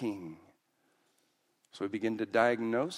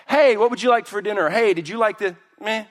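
put-on indifferent kid; 11 semitones higher, 11 dB louder than usual. Acting out kid's indifferent reply.

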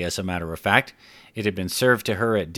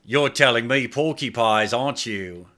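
skeptical Clive; 3 semitones higher than usual. Acted. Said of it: "he asked with an eyebrow cocked".

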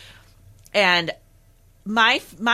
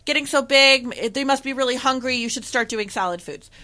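mock enthusiasm, easing down toward the end; gushing adviser; 5 semitones higher than usual. People telling a parent to start solids, mock gushing.

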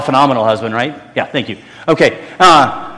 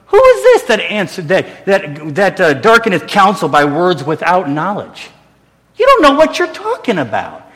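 imitated exasperated God, jumping high in pitch; high-pitched mock reprimand of someone clueless; mock indignant scolding; 4 semitones higher than usual. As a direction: act out an annoyed telling-off, hammed up. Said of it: "does he say it like that?".

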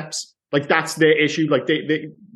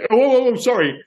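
flustered apology; 8 semitones higher, 3 dB louder than usual. Retold or imitated. Apologising after stepping on dog.

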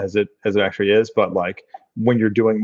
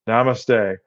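mock sudden namaste. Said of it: "and then suddenly".

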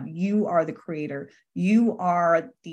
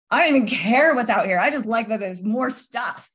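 gleeful retelling; 3 semitones higher, 3 dB louder than usual. Retold or imitated. Retold joy at opening door.

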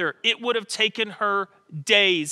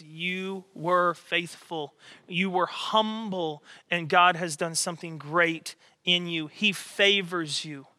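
tender affirmation; 2 semitones lower, 4 dB quieter than usual. Retold or imitated. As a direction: bless her like a wise elder. Elizabeth blesses Mary tenderly.

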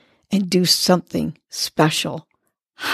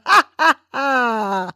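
higher ha ha ha breaking into a laugh; 4 semitones higher, slower than usual. Shown as a demonstration. Host laughing along with listeners, real laugh ha ha ha. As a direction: let the ha ha tumble into real laughter. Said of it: "try this approach with me".

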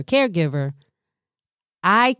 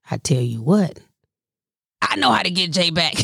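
higher, scheming mock voice with laughs; imitating mom's voice; 6 semitones higher than usual. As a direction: plot revenge gleefully, cackling. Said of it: "And she's like".

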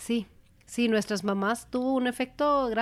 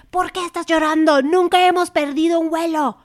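a hint of an incredulous husband; imitating husband; 6 semitones higher, 6 dB louder than usual. Wife mimicking husband's calm retort, lightly voiced. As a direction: lightly voice him asking why she's upset.

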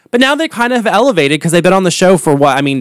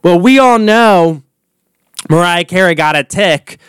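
Wendy Williams; 2 semitones higher than usual. Retold or imitated. Gossip host on a singer, lightly imitated knowing tone. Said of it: "it's like Wendy Williams talking about Mariah Carey".

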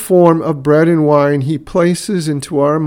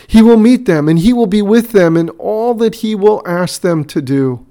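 rising preaching fervor; 6 semitones higher, 4 dB louder than usual. Real, not acted. Climax of preaching.

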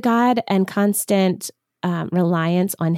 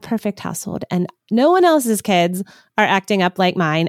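sarcastic disbelief. Retold or imitated. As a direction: scoff like a doubtful mom. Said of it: "moms listening often are like".

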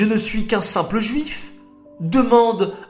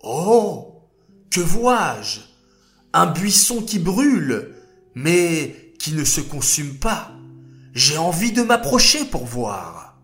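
amazed; 2 semitones higher than usual. Acted. Moshe sees burning bush.

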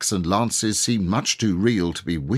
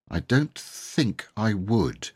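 slow, hesitant refusal; cautiously; 4 semitones higher, slower than usual. Acted. Boy declines the first shot, cautiously. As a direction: hold back warily. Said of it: "said Robert cautiously".

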